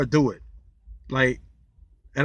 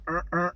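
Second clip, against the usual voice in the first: soft mock cop grunt; 2 semitones higher, 5 dB quieter than usual. A cop flags the driver with a quiet mock uh-uh. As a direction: grunt like a cop calling you over. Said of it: "he made that noise".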